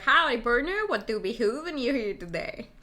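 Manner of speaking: lightly hammed-up cowboy greeting; playful mock cowboy accent. Streamer joking about what a cowboy says, mock cowboy accent. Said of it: "Cowboy gotta be like".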